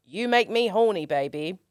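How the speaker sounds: mock groovy spy come-on; Austin Powers impression. Kid at school doing Austin Powers for classmates, lightly hammed-up. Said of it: "Who has a good impression of Austin Powers?".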